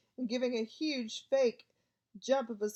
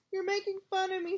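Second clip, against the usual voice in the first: tearful accusation; 9 semitones higher than usual. A narrator's reading. Myrtle tearful.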